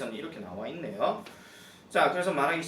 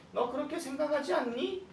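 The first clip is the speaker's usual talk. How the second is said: 동료 흉내; 12 semitones higher than usual. Acted.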